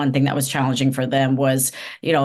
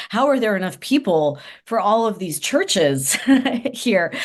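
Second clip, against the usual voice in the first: amused disbelief; 5 semitones higher than usual. Retold or imitated. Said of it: "I was thinking".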